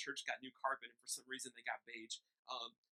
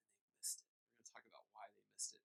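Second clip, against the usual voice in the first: hushed whisper; 4 semitones lower, 8 dB quieter than usual. Acted. Preacher drops to near whisper.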